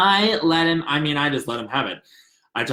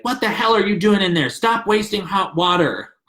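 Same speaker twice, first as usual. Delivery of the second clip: put-on annoyed boyfriend yelling; 5 semitones higher than usual. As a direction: call through the door in a mock annoyed yell. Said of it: "used to knock on the bathroom door and be like".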